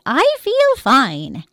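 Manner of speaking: slow ghostly reassurance; dead man insisting. Acted. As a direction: stretch it out like a smug ghost.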